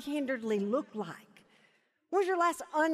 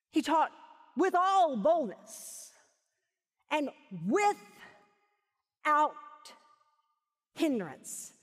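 very slow, with long pauses between phrases; preacher hammering each phrase home slowly; emphatic repetition; 2 semitones higher, much slower than usual. Real, not acted. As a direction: stretch WITHOUT right out, then let "hindrance" drop. Repeats verse for emphasis.

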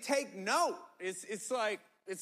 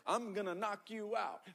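laughing mock threat; 4 dB quieter than usual. Joking threat to kids.

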